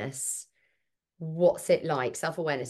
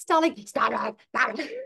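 higher, loud guttural mummy psycho voice; mock guttural dragon roar; 7 semitones higher, 4 dB louder than usual. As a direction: growl the order like a dragon. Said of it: "This guttural voice will come out".

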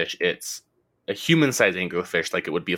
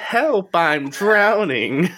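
drowning; 11 semitones higher, 5 dB louder, much slower than usual. Pretend. Acting out drowning fish-person.

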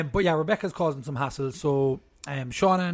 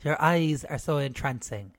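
mock poetry reading. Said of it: "A poem by Kate".

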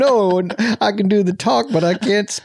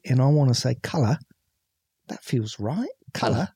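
cartoony Cockney; 4 semitones lower, 4 dB quieter than usual. Shown as a demonstration. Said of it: "go full Cockney like this".

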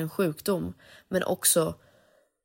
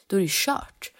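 1 despairing whisper; 2 semitones higher than usual. Retold or imitated. Despairing inner thought retold.

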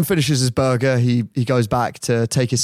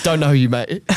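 laughing; 4 semitones higher than usual. Real, not acted. Laughing while quoting.

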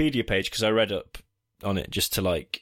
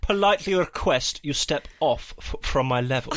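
polite ghost voice; 6 semitones higher than usual. Pretend. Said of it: "do it in your best ghost voice".

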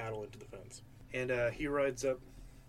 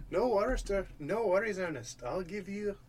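higher-pitched Irish lilt, loosely held; attempted Irish accent; 4 semitones higher than usual. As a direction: offer reassurance in an amateur Irish accent. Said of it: "He's supposed to be Irish".

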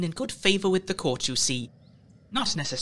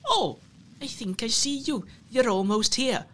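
sweetly luring; 6 semitones higher than usual. Retold or imitated. Luring the lad in the dark.

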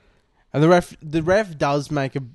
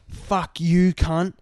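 raised-pitch mock outburst; imitated angry yell; 4 semitones higher, 3 dB louder, much slower than usual. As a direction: act out a player cursing the ref. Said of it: "he's on the sideline still yelling out".

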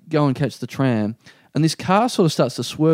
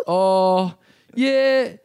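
high, hesitant, awkward yes; freaked out; 5 semitones higher than usual. Retold or imitated. Flustered man offered a lift by a celebrity, freaked out. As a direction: waver nervously over the offer. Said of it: "getting really freaked out".

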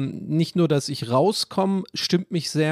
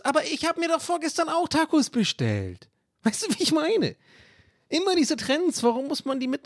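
much higher whining voice; mock whiny self; 12 semitones higher than usual. Mocking himself griping about taco trends. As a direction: whine like a hypocrite.

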